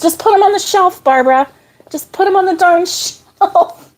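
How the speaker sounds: mock yell through laughter. Sorting yarn, echoing viewers ordering her about, laughing mock yell. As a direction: playfully echo the viewers' command while cracking up. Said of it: "the, uh, yelling".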